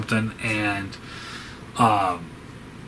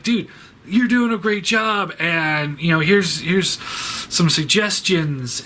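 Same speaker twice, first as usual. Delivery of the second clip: friendly hobbyist; 5 semitones higher, slower than usual. Retold or imitated. Voicing encouraging Warhammer hobbyists.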